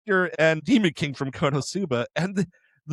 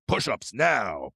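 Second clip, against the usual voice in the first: slow, lower mock order; retold command; 4 semitones lower, slower than usual. Host voicing Kokaitis ordering the military guys, mock command. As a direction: give a curt order like an officer, drawn out. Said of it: "He's like".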